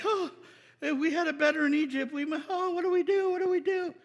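high-pitched, helpless fretting; hammed-up worried whine; mock panic. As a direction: wail it like a flustered crowd. Mimics Israelites fretting helplessly.

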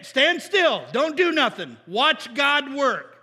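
loud, slow prophet's command; stretched-out, commanding epic proclamation; booming Moses. Acted. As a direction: thunder each order to the crowd.

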